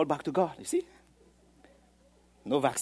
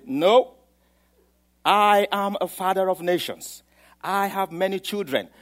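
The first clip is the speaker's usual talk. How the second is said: bold proclamation; 3 semitones higher, 8 dB louder than usual. Retold or imitated. Abraham answering neighbors.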